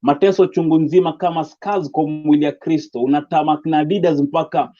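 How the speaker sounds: rhythmic recited poem, a touch fuller; steady spoken word delivery, lightly lifted. Acted. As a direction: perform it like a slam piece.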